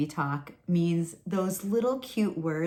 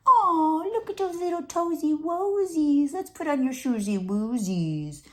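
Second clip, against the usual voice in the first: put-on much higher, louder, gushing baby-talk coo; 11 semitones higher, 4 dB louder than usual. Shown as a demonstration. Parent gushing over baby's toes in made-up words, much higher and louder. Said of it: "some people think baby talk is this".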